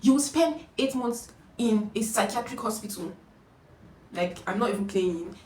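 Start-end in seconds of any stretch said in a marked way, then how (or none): 0.0-3.1 mock curse, raised and louder; a hint of doom-laying, retold. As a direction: pronounce a curse on someone. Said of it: "she would curse the person out".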